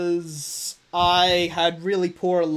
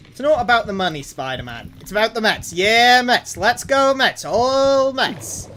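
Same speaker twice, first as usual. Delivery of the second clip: lightly acted, higher-pitched fan quote; quoted Mets fan; 4 semitones higher, 5 dB louder than usual. Player recites a Spider-Man quote for Techno, mock fan cheering. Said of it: "how's that quote go".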